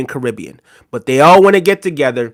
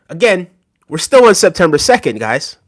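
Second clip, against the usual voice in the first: out of breath; breathless, gasping for air; gasping between phrases. Real, not acted. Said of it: "And I'm out of breath".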